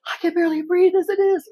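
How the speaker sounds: high, loud, exasperated cry; mock yell of an exasperated patient. Patient in a wheelchair snapping at the hospital staff, high exasperated cry. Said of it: "maybe I said it more in a".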